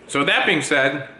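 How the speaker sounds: talking through a mouthful of sandwich; chewing while speaking; mouth full. Real, not acted. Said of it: "I'm talking with my mouth full".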